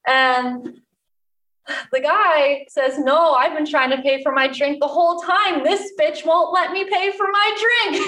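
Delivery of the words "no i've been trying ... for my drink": mock-indignant customer, climbing higher to the end; retold protest, pitch rising as it goes; indignant complaint. Drunk guy protests to the security guard, mock indignant.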